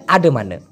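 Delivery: low "আডে মানে" with schwa endings; colloquial pronunciation. Shown as a demonstration. Teacher showing what many people say, colloquial pronunciation. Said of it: "অনেকে বলে".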